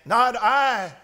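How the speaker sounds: lightly voiced story duck; emphatic refusal as the duck; quacking duck refusal. A narrator's reading. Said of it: "quacked the duck".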